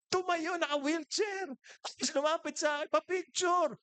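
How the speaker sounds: very high-pitched comic disbelief; amazed excitement. Retold or imitated. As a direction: tell it as a hilarious miracle, voice way up. Retells astonishing rise from wheelchair. (tuwang-tuwa at manghang-mangha)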